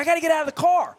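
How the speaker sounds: high, loud frantic outburst; possessed wife. Retold or imitated. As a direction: imitate a wife desperate to jump out. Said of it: "like she was possessed".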